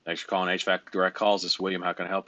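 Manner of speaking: flat, dropping phone greeting, no time to waste; busy, no-nonsense greeting. Shown as a demonstration. Coach showing trainee how to answer phones, terse and busy. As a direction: answer like the caller's the two hundred and fifty-ninth today. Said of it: "As if I have answered the phone for the two hundred and fifty-ninth time today".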